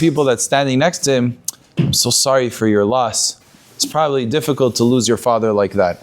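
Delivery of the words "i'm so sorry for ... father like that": gentle condolence. Acted. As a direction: console a stranger at a funeral, voice dropped. Consoling a crying mourner at funeral.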